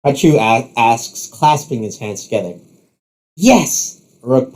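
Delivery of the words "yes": high, excited exclamation; triumphant cheer. Acted. Rook hears the match is on, triumphant. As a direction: celebrate with a fist pump. Rook pumps his fist.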